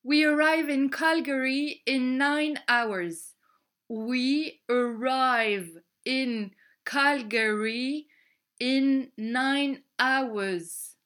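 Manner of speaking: slow, muffled speaker announcement; like a pilot over the plane speakers. Acted. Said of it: "le pilote parle en anglais". (annonce du pilote dans les haut-parleurs)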